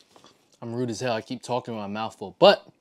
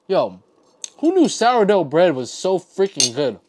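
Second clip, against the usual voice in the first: higher and louder amazed praise; excited rave; 5 semitones higher, 8 dB louder than usual. Real, not acted. Telling viewers the sourdough amazes him, loud excited rave. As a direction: rave about the bread, blown away.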